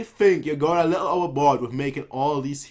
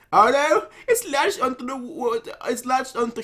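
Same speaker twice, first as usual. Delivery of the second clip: sudden alarm; 10 semitones higher than usual. Real, not acted. Sudden setback in the battle.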